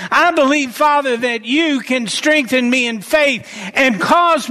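earnest spoken prayer to the Father; example prayer. Acted. Preacher models a believer's prayer, earnest. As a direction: pray it like you mean it.

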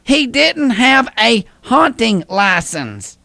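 slow proud punchline; telling a dad joke. Acted. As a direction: savor the punchline.

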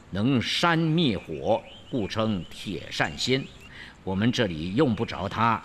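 a hint of an old woodcutter chatting. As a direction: settle into an old woodcutter's easy telling. Woodcutter answers, chuckling.

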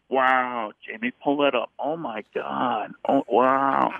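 a hint of Kermit in a Rogan voice; amazed podcast host, lightly done; Joe Rogan. Adding Kermit back, a mild Joe Rogan. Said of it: "it becomes Joe Rogan".

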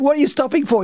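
mock upset cry after bumping a mate's car; retold startled outcry. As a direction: playfully replay your shock after the crash. Crash at Balls Head, retold.

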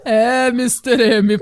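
a hint of a grave TV narrator; Cid Moreira. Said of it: "Daí aparece o Cid Moreira".

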